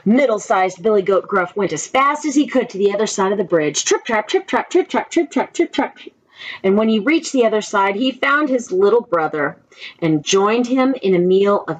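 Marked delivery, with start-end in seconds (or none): 3.8-6.0 trip trap hooves. Acted. Hooves on the bridge.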